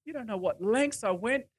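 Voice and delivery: whispered, then very soft, as Jesus answering; hushed reply. Acted. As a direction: whisper it intimately to the doubter. Voicing Jesus answering the doubter.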